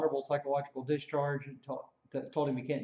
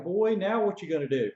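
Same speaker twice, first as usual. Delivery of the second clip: higher, louder threat; taunting yell; 5 semitones higher, 5 dB louder than usual. Retold or imitated. Drill sergeant taunting the recruit around the corner, loud. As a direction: call him out before the fight.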